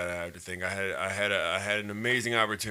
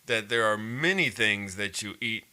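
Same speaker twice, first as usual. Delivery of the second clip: slow, raised courtroom challenge; mock prosecutor; 3 dB louder, slower than usual. Friend playfully cross-examines the picky eater, mock prosecutor. Plays a prosecutor questioning him.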